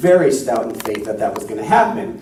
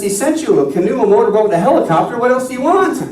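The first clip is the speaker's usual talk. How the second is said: exasperated Saint Peter; 9 semitones higher, faster than usual. Retold or imitated. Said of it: "And Saint Peter says".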